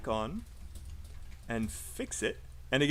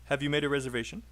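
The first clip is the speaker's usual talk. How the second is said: quick "Have you", weight on "made" and "reservation"; listen-and-say model, "Have" unstressed, rising "reservation"; much faster than usual. Shown as a demonstration. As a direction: model the question with "Have" kept light, rising at the end. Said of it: "have is not stressed".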